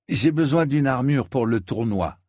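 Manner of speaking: lightly voiced eager knight.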